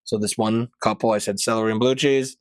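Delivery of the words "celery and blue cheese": flat rote server line; lightly robotic server recital. Retold or imitated. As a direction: rattle it off like a machine. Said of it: "like I always do robotically".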